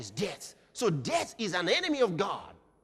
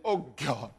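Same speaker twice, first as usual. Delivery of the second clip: mock pleading prayer; 5 semitones lower, faster than usual. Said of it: "He didn't say".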